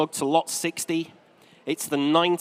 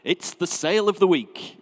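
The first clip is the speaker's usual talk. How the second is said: slow, grand game show announcer; lightly voiced seventies TV host; TV announcer impression; slower than usual. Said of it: "can you remember".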